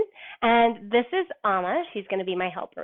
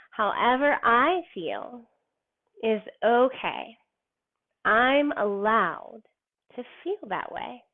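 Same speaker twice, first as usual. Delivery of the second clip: slow, gentle, hand on heart; slow calm affirmation; slower than usual. Shown as a demonstration. Teacher to kids, modelling the affirmation: slow and gentle. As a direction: let each phrase settle, unhurried. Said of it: "and say".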